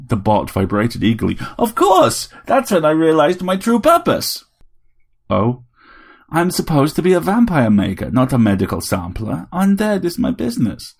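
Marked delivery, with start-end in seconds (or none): 1.6-10.9 higher, louder put-on Transylvanian voice; a tiny robot playing a grand vampire; robot Dracula. A narrator's reading. Vampire robot telling Harry it wants all his blood.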